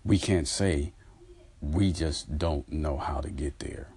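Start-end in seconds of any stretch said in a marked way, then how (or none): 1.6-3.9 whispered, like a secret no one admits; a hushed confession. Acted. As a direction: breathe it out as an admission. Voicing a hidden admission.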